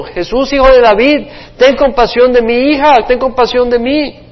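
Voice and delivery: loud, high desperate plea; crying out. Acted. Mother begs Jesus for her daughter, crying out high and loud. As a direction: call out to him, begging for your daughter. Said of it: "esta mujer venía gritando".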